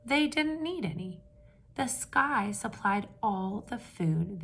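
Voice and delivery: steady read-aloud storytelling voice; story narration. A narrator's reading. Teacher reading a picture book to the class, storytelling voice.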